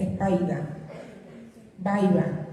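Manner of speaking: Espaida and Baiba with the r turned into an i glide; vocalized R. Shown as a demonstration. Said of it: "se vocaliza y se dice".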